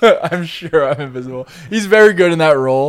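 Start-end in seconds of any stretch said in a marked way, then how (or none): 0.0-1.5 deadpan voiced Drax line; Drax impression. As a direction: say it like literal-minded Drax. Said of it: "let's get some Drax lines".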